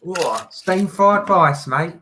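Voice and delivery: drawn-out English accent, matey. Shown as a demonstration. Challenging Monica to copy it, English accent. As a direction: put on a slow English accent. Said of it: "Can you do it in an English accent".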